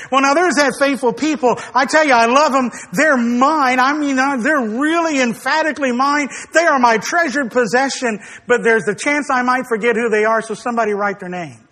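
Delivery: brisk, offhand parody of dithering; mock casual musing. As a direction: ramble it quickly, as a tongue-in-cheek imitation. Mock version of God dithering.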